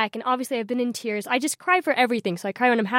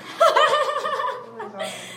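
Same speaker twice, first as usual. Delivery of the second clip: high, delighted peal of laughter; high burst of laughter. Real, not acted. Guest recalling her prank on her family, laughing high. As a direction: break up laughing, high and helpless.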